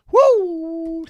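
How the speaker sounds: loud high whoop; excited woo. Real, not acted. Streamer whooping at a coin chart, loud high woo.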